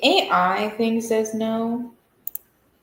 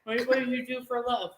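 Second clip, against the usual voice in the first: talking while chewing; words pushed through a mouthful of food; mouth full; 3 semitones higher, 5 dB quieter, faster than usual. Real, not acted. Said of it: "stop talking with your mouth full".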